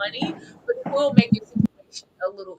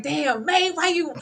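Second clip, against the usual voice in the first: retold yell; 6 semitones higher, slower than usual. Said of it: "The way I was yelling".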